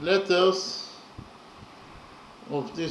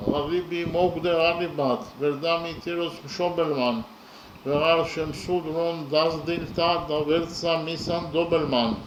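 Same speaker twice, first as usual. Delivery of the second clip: poem recitation. Acted. Teacher reciting the original stanza for analysis, rhythmic and steady. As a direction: chant the original lines with steady meter.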